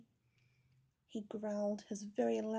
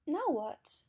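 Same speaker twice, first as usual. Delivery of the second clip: wary bear; 5 semitones higher, 6 dB louder than usual. A narrator's reading. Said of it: "thought Teddy".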